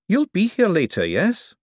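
put-on a young buyer pushing back; young man's voice. Young man insisting to the old forger, impatient.

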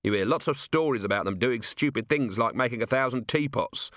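lightly voiced, agreeable young officer; a hint of keen explaining; earnest officer. Officer agrees golems unsettle people, earnest.

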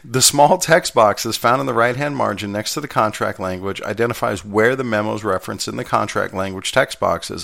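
formal text read with some life; lively read-aloud. Real, not acted. Steward reading a contract manual aloud for listeners, lively read-aloud. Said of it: "read it in a lively voice".

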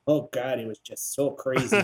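exaggerated Wisconsin vowels; mock Wisconsin accent. Teasing the mother-in-law from Wisconsin, mock Wisconsin accent. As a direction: mimic a Wisconsin accent, lightly. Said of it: "I'll make fun of her, and I'll start going like this".

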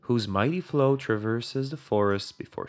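solemn storyteller over music; epic fantasy narrator. A narrator's reading. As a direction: tell it like an ancient legend. Fantasy lore intro over music.

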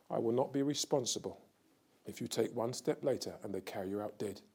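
steady and unhurried warning; calm warning. Retold or imitated. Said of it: "stood up very calmly and said".

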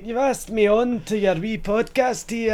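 Impression of a singer. Podcaster interviews himself as the singer in a high, broad Scottish voice. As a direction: put on a hammed-up Glaswegian lady. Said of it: "me pretend to be Michelle McManus".

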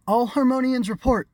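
high, loud royal command. A narrator's reading. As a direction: order them like a queen. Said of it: "she commanded".

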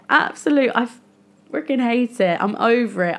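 really fed up, punchy and emphatic; aggressive frustration. Real, not acted. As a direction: vent real exasperation, hitting the first words high. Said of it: "I'm sounding really aggressive".

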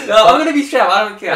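laughing it off, embarrassed; laughing loudly. Real, not acted. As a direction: burst out laughing then push on.

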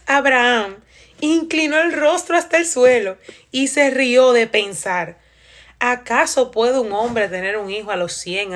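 slow, deliberate reading of scripture; slow Bible reading. Acted. Reading Genesis aloud to her viewers, slow and measured. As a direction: read the verse out slowly and solemnly.

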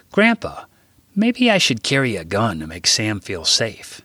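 put-on boy pitching an idea to grandpa; eager boy. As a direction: Jack asking grandpa, eager. Jack voiced as child.

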